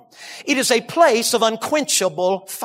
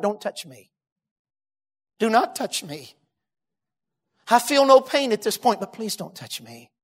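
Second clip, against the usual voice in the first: low, very soft, halting plea; hushed retold plea; 3 semitones lower, 5 dB quieter than usual. Burned husband warding off his wife's embrace, hushed plea. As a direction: plead quietly, leaving long pauses. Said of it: "put his hands up like this and said it out loud".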